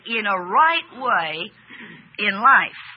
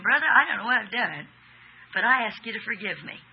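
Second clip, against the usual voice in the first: sincere plea; 4 dB quieter, faster than usual. Shown as a demonstration. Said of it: "Do you hear the difference in the tone?".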